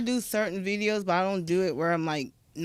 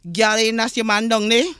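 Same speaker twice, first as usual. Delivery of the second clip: a lightly voiced Southern Black accent, louder; 3 semitones higher, 8 dB louder than usual. Retelling the officer teasing her about her ex, lightly voiced Southern Black accent. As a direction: say it in your own accent, teasing and loud. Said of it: "I'ma say it in my accent".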